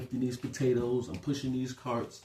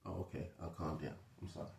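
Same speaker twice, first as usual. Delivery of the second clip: soft, low, backing down; quiet, chastened acted reply; meek apology; 4 semitones lower, 12 dB quieter, faster than usual. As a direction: drop your voice and concede sheepishly. Voicing chastened reply to friend.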